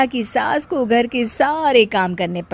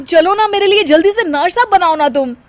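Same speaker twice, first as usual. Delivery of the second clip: much higher, louder wheedling plea; coaxing whine; 9 semitones higher, 5 dB louder than usual. Acted. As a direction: beg her for breakfast, childishly. Hungry husband coaxing for breakfast. (ऊँची आवाज़ में मिन्नत करते हुए)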